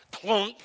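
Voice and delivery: sudden loud clunk; imitated clunk. Shepherd's staff knocks the wolf, sudden imitated clunk. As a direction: punch it like a staff hitting.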